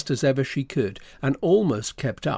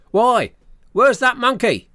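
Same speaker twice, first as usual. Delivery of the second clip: higher, louder startled demand; crying out; 9 semitones higher, 6 dB louder than usual. A narrator's reading. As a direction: call out loudly as the monkey's angry owner. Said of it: "they heard the man cry out".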